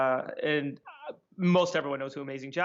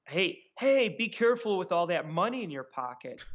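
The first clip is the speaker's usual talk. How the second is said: retold yell; 2 semitones higher than usual. Prankster yelling down the alley to a friend, retold yell. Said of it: "he yells out".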